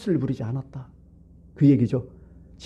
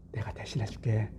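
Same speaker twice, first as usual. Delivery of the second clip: low, very soft voicing of God's promise; hushed reassurance; 4 semitones lower, 12 dB quieter than usual. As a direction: drop right down to promise it gently. God's promise voiced quietly. (낮고 아주 작게 달래듯)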